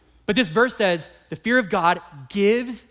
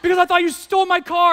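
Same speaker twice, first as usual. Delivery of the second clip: high, loud, laughing; telling Michael he nearly got reported, laughing; laughing exclamation; 11 semitones higher, 4 dB louder than usual. Retold or imitated. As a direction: blurt it out through laughter. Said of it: "I said".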